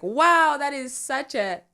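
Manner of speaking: high amazed wow; surprised wow. Retold or imitated. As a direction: gasp it out in disbelief. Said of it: "I was like".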